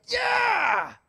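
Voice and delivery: high, loud victory whoop; cheering. Retold or imitated. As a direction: whoop it up like a winning crowd. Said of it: "it'd be like".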